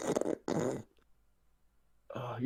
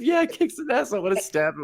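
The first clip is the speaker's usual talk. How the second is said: imitating her voice; 4 dB louder than usual. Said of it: "with your voice".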